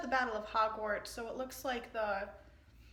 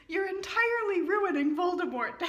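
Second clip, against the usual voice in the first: laughing quote; 8 semitones higher, 8 dB louder than usual. Real, not acted. Reader gleefully repeating her favourite line. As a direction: savor the line through laughter. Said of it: "my new favorite quote".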